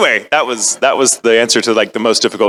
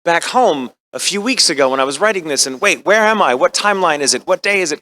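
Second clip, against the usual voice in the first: higher, lost and disoriented; a light touch of frantic Okabe confusion; wondering what timeline it is; confused character voice; 8 semitones higher than usual. Retold or imitated. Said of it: "my mind started kind of slipping into the character".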